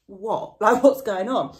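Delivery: laughing disbelief. Retold or imitated. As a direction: laugh it off in mock bafflement. Baffled reaction to evasive friend.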